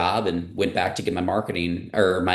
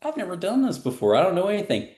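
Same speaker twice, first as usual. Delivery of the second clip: flustered self; 11 semitones higher, faster than usual. Retold or imitated. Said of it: "And I'm like".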